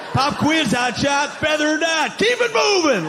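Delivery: high-pitched, hectoring demand; impatient racist. Acted. Racist giving a pop quiz, impatient. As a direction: fire it off like a rushed quizmaster. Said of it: "but quick. I got shit to do".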